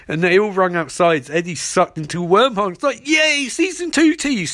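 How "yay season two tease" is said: high, drawn-out hammed-up yay; sing-song mock excitement; mock cheering. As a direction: cheer it slowly in a raised voice. Mock cheer for sequel tease.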